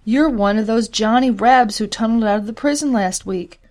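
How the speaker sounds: woman confronting a runaway prisoner, accusing. Acted. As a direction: pin the escaped prisoner down. Betsy accuses escaped soldier.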